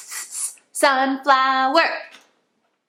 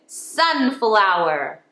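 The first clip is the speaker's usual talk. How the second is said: sunflower read slowly, sounds stretched; slow sounded-out sunflower; slow blended read; slower than usual. Shown as a demonstration. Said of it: "let's read it".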